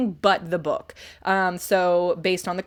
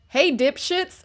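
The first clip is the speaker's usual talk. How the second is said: husband reading aloud; 6 semitones higher, slower than usual. Retold or imitated. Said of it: "he read aloud".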